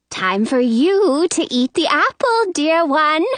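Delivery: put-on coaxing old lady. A narrator's reading. Old lady back to the girl, coaxing. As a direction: coax with the pitch lifted.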